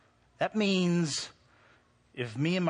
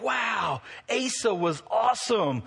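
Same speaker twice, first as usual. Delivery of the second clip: mock awe; 5 semitones higher than usual. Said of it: "leave and be like".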